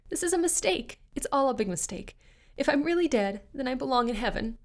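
high, panicky protest; desperate pleading. Acted. Carol begging the devil she belongs in heaven, high and desperate.

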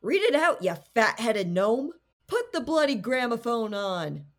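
mock a squeaky spirit insulting the guest; high-pitched mongoose. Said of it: "always in a high-pitched voice".

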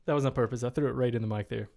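talking while chewing; words round a granola bar; mouth full. Real, not acted. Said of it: "are you gonna crunch into the mic too?".

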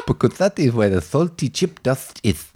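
lightly voiced movie characters, near own voice; a hint of the oddball diner scene, deadpan; Greasy Strangler impression. Impression of the chip shop scene for his co-host, lightly voiced. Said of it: "This is Mark's movie impression".

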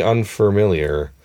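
"unfamiliar" with an added R, un-fer-miliar; mispronounced "unfamiliar". Retold or imitated. Doubting it is dialect, "unfamiliar" with an extra R. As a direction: put an R in the first part of "unfamiliar". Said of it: "he mispronounces the word unfamiliar".

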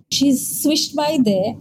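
slow, drawn-out swishing words. Shown as a demonstration. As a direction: draw it out like a glide. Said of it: "like that".

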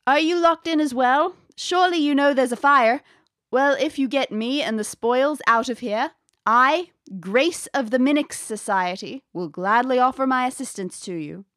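a lightly voiced sixteen hundreds English accent; old English accent. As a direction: speak as a lady of sixteen hundreds England. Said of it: "It's sixteen hundreds accent".

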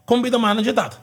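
a hint of an eager kid asking Dad; imitated child's request. Son asking dad to be manager, lightly imitated child.

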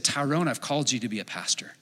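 hushed, softened voice of God; gentle, near-whispered calling; quiet inner voice. Retold or imitated. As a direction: speak it softly, as an inner prompting. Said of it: "this inner voice".

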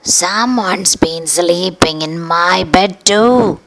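slow, lightly voiced mama bear; a hint of a mother bear's surprise; Mama Bear sees her bed. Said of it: "said the mama bear".

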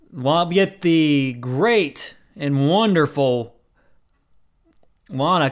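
slow, mock-grand build-up; dripping sarcasm, slowed right down; sarcastic praise. Real, not acted. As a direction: drag it out with sarcasm. Sarcastic intro of disliked wrestler.

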